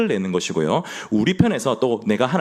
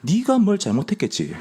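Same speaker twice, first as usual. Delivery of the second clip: blunt Gyeongsang man; 9 semitones higher than usual. Retold or imitated. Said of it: "저희 경상도 남자들은".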